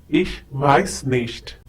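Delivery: "weiß" said with a hissed double S; sharp S. Shown as a demonstration. Teacher shows learners the ß sound in "weiß". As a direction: hiss the ß in "weiß" like SS. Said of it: "The beta symbol has the sound of a double S".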